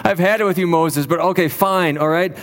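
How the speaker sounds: mildly exasperated, giving in reluctantly; understated fed-up exasperation, acted. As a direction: voice a fed-up concession with restraint. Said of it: "sense the exasperated tone in God's voice".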